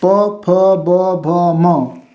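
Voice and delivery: very slow प फ ब भ म from the lips; lip consonants demo. Shown as a demonstration. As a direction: spell out प फ ब भ म slowly. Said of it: "इसको बोलने में कहाँ से आवाज़ आ रही है?". (होठों से धीरे धीरे प फ ब भ म)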